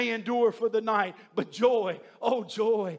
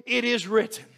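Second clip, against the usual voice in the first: calm. Shown as a demonstration. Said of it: "calmly say".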